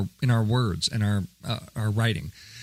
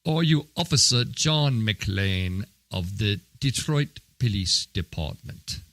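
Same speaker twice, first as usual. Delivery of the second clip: John McClane impression; 2 semitones lower than usual. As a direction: growl it out like a tough movie detective. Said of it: "I'm gonna do my John McClane".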